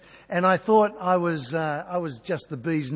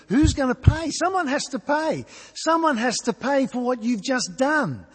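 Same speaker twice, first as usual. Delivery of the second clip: mock boss anger; 7 semitones higher than usual. Imagined angry boss demanding payment.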